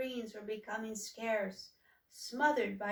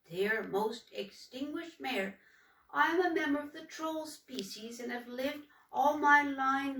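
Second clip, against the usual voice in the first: troll writing the mayor. Acted. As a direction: read it like a humble troll's careful letter. Humboldt imagines writing to mayor.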